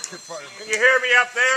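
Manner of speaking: shouting up scaffolding. Real, not acted. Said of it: "there's a microphone".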